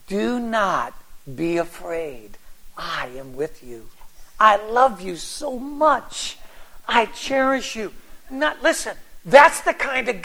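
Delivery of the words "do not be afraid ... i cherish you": put-on soft and slow, like comforting a frightened child; Jesus gently reassures her, looking into her eyes: soft, slow and tender. Hushed loving promise.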